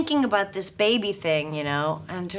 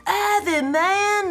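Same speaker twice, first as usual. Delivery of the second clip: high, mock Aussie bloke, badly faked; a weak stab at an Australian drawl on "Have it, man"; bad Australian accent; 12 semitones higher, 3 dB louder, much slower than usual. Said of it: "I can't do accents".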